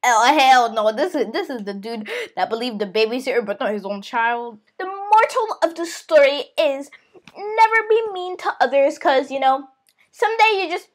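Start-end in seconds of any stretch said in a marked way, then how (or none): 0.0-4.6 low comic aside. Acted. Comic aside about gullible dad.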